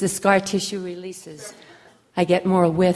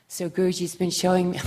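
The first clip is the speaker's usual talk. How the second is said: talking out of breath, real; breathless after the pose, catching air. Real, not acted. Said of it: "I'm out of breath".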